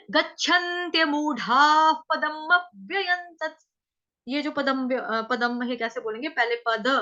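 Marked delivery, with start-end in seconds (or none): 0.1-3.6 slow, measured recitation. Shown as a demonstration. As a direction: intone the full line slowly. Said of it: "ठीक है".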